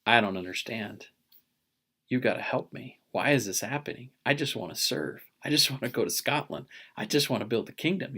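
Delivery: retold earnest plea to heaven; plead, pouring your heart out in prayer; heartfelt pleading. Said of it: "I'm pouring my heart out to the heavens".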